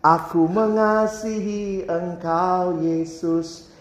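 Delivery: slow, drawn-out pious vow; hammed-up devotion, stretching every word; mock pious vow. Preacher mimics a churchgoer's pious vow, slow and drawn out.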